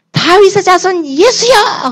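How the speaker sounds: high, slow, loud call; a blind beggar shouting for Jesus, high and drawn out; crying out. Acted. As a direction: cry out across the crowd to be heard. Blind man calling out to Jesus.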